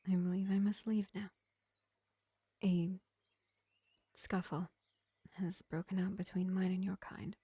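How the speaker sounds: lightly voiced vampire healer, projected above the chatty voice; gentle vampire medic. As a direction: play a measured vampire reassuring a wounded elf, with long pauses. Vampire takes leave of the elf.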